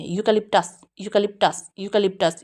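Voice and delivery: यूकेलिप्टस repeated with unstressed syllables said quickly; teacher drills यूकेलिप्टस, each take falling; eucalyptus drill. Shown as a demonstration. Teacher repeating the word for the class, careful drill. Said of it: "जल्दी से बोलेंगे".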